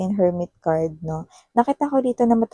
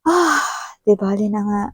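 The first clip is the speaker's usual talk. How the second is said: softened, anger gone. Retold or imitated. Partner melting after looking at you, gently letting it pass. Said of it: "Nawala agad yung galit niya rito".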